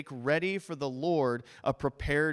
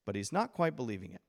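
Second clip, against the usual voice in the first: normal talking voice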